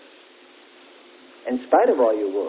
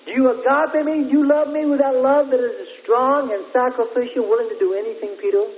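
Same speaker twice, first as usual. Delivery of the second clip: earnest pleading question; 10 semitones higher than usual. Acted. Preacher voices Jesus questioning Peter.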